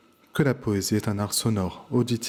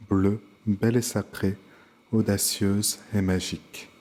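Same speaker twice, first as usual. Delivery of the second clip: measured poem reading with line-end pauses; poem recitation. Shown as a demonstration. Teacher reads a sonnet extract to pupils, measured recitation. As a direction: recite verse, pausing after each line.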